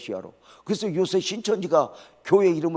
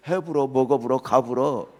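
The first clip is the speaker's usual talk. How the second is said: Jeolla dialect; 3 dB louder than usual. Retold or imitated. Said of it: "불어를 써요".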